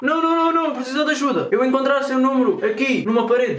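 put-on broken-Portuguese Russian accent. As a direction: play a lost Russian, heavy accent. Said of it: "com a famosa voz de russo".

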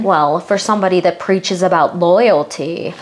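slow, calm, a touch medicated; a lightly voiced cool dig; a slow, understated calm Meredith; Meredith impression. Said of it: "do my Meredith impression".

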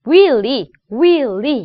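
윌리 with a clean 리, not rolled; unrolled clean L. Shown as a demonstration. Coach shows students the name, unrolled L in 윌리. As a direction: say 윌리 in two clear beats, tongue tip L. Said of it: "굴리지 않고 깔끔한 리 발음".

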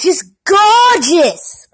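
put-on slow, drawn-out Jersey accent on "gorgeous"; mock New Jersey accent, slow. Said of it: "That's a Jersey accent".

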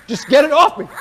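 shuddering revulsion. Real, not acted. Bug on his back.

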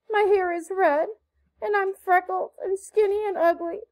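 put-on high, impassioned pleading of a penitent girl; beseeching apology. A narrator's reading. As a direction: beg forgiveness with theatrical remorse. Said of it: "held out her hands beseechingly".

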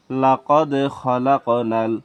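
very slow, measured recitation; deliberate, drawn-out recitation; Quran recitation. Shown as a demonstration. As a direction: recite the Arabic slowly, sound by sound. Recites the joined words.

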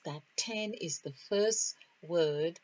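"first" pressed firmly with a rising lift; emphasis on first. Shown as a demonstration. Preacher stressing "first" to his listeners, rising emphasis. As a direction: lean into the word "first" to drive the point home. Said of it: "say it again with emphasis".

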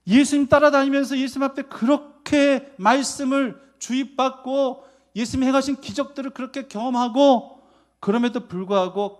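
high, loud, driving sermon delivery; fiery preaching. Acted. Pastor rebuking the disciples' unbelief, preaching loud and high. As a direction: hammer the point home to the congregation.

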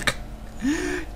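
squeaky breathy giggle; high giggle. Real, not acted. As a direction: giggle at the joke. Joking about getting drunk.

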